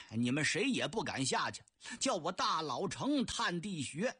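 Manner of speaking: brash rogue, lightly voiced, arguing his case; Cheng Yaojin protesting. Cheng Yaojin protests when tied. (程咬金不服气地质问)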